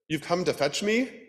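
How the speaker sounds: high, scared little duck; frightened duck voice. Acted. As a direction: ask it stiff with fear. Duck character voice.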